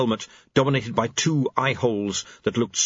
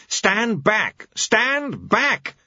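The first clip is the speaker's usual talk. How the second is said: much higher, louder yell; screaming; 11 semitones higher, 3 dB louder, much slower than usual. Acted. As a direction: drive the crowd back in panic. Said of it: "he screamed".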